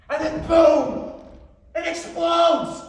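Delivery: slow, high theatrical shout; dramatic explosion. Acted. Telling of the microwave exploding, dramatic shout. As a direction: blast it out, drawing out each word.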